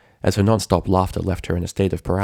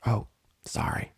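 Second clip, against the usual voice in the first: soft, embarrassed apology; quiet, breathy sorry; sheepish whisper; 3 semitones higher, 8 dB quieter than usual. Acted. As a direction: whisper it, abashed.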